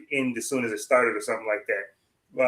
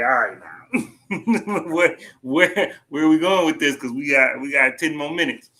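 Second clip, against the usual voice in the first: stretched-out, louder wondering aloud; mock impatient inner voice; 2 semitones higher, 3 dB louder than usual. Fan watching the finale clock, mock impatient. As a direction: play the fan checking the clock. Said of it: "I'm like".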